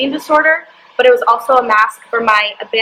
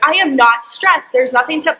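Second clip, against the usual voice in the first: half-replayed angry denial to the therapist; losing it; 3 semitones higher than usual. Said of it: "So I kinda lost it on her".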